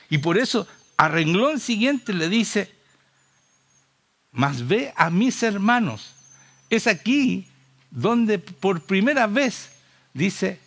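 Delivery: slow right down and proclaim each phrase; emphatic preaching. Real, not acted. Preacher announcing the key verse to the congregation, slow emphatic proclamation.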